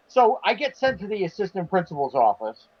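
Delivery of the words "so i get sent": plain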